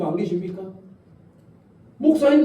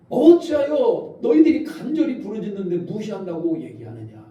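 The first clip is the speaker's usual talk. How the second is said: God rebuking his people; 3 semitones higher than usual. Acted. Preacher voicing God's rebuke.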